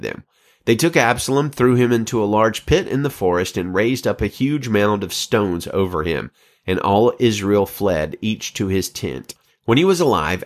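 steady, clear Bible reading; scripture reading. Acted. Host reads Second Samuel to listeners, measured reading. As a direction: read the chapter with calm weight.

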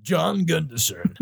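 a hint of a mock Scandinavian accent; slow, lightly put-on Scandi lilt. Guessing the name's origin, mild mock Scandi accent. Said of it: "That's a bit Scandi".

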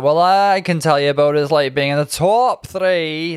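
Scottish lilt, quoting Lawrence brightly; Scottish accent impression. Imitating Lawrence's reply to Sister Sitter in a light Scottish accent. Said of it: "That's my Scottish accent".

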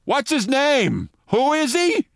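high, slow loud confused question; loud blurt. Retold or imitated. Giuliani asking loudly into the microphone, high confused shout. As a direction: blurt it into the mic, lost. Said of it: "said loudly".

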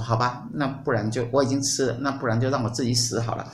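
a touch of coaxing, slightly soft and quick; mildly pouting, wheedling the husband; acting spoiled. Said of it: "夏娃就跟他撒娇说". (轻轻撒娇、略快地说)

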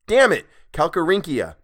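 exasperated yell at a tongue-twister word; frustrated outburst. Real, not acted. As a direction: snap at yourself after the slip. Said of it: "frustrated retake after a misread".

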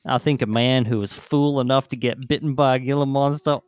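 put-on a light Southern American accent reading an old doctor's quote; a mild antebellum Southern gent, reading it out; reading the 1899 doctor's quote in a mild Southern American accent. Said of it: "That is the best accent work you have ever done".

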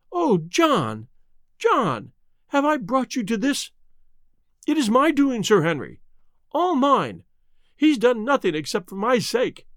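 a wife confessing in despair; anguished wife. Acted. Mrs Barrymore voiced.

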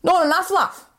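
high-pitched mock rejection; dismissive supervisor. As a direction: imitate a boss turning work down, high. Supervisor rejects her picking.

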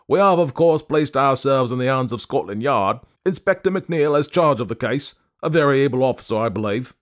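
put-on an old bank manager reassuring the detective; pompous banker. A narrator's reading. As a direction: speak for the bank with grave importance. Bank manager voiced, loud.

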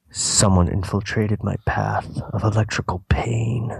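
slow, eerie whisper. Acted. Reader whispering a stray line from the script. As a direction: whisper it slowly, unvoiced breath only.

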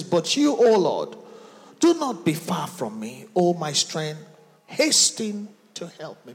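loud rallying call to prayer; full-voiced preaching. Real, not acted. Preaches, leading congregation in prayer.

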